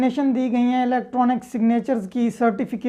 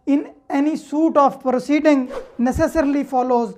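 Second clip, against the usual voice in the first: slow dictation of statute; much slower than usual. Shown as a demonstration. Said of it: "reads the law text aloud".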